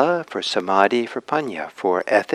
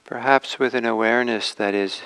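unhurried meditation guidance with long pauses; gently measured meditation teacher's voice; guided meditation; 3 dB quieter than usual. Acted. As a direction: ease listeners into posture and awareness, leaving space between phrases.

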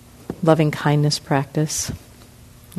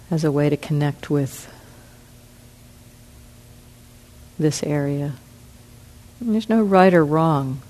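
unhurried, with long pauses between phrases; guided meditation. Real, not acted. Meditation teacher settles the group into relaxing, guided meditation. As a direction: guide them gently, leaving room to breathe.

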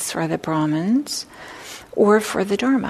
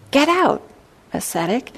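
ogre's command; 6 semitones higher than usual. Acted. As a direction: toss the monk out with contempt. Ogre's rude dismissal, restated.

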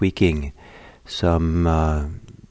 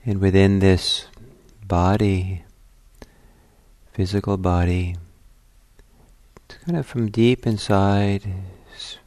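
unhurried meditation guidance with long pauses; guided meditation. Acted. Teacher settling listeners at the start of a meditation, calm guiding voice. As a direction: guide them gently inward, phrase by phrase, leaving silences.

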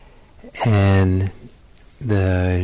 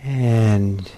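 measured meditation guidance with long pauses; guided meditation. Real, not acted. Teacher settling meditators into their bodies, guided meditation. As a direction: lead them into stillness, leaving space between phrases.

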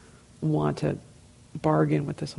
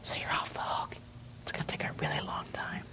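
stage whisper; 12 dB quieter than usual. Real, not acted. Playful aside after Buddha story.

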